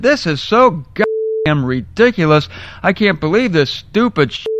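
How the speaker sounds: mild mock rant, pitch lifting; retold angry cursing. Preacher retells swearing at the billboard, mildly acted anger. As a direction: curse in acted exasperation without shouting. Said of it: "I was so mad I began to curse".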